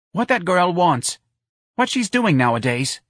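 put-on a high-pitched New Orleans mother asking after the girl; a mother questions her son about Myrna; Missus Riley, high. A narrator's reading. Mother asks her son about his girlfriend, high voice.

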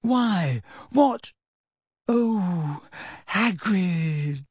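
high, plaintive dismay; tearful exasperation, voiced high; close to crying. A narrator's reading. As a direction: falter upward as if about to cry. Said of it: "sounded as though she wanted to cry".

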